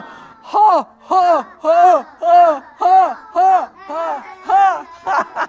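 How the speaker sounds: loud booming ha ha ha; guffawing. Shown as a demonstration. Reading to the class, a loud guffaw. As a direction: belt out a really big laugh. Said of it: "It's a really big laugh".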